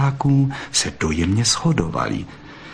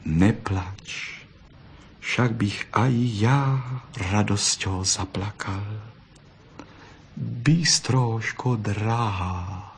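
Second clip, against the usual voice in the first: tender; 5 dB quieter, much slower than usual. Acted. Tender moment after kisses.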